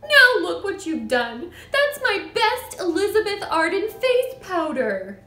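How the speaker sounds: high, loud wail of blame; shrieking. A narrator's reading. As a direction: scold him over your ruined powder. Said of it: "shrieked the mother".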